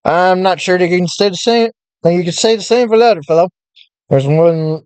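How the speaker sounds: put-on old-time radio announcer voice; lightly voiced vintage newsreel announcer; 1930s newscaster voice. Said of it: "Why am I talking like a nineteen thirties newscaster".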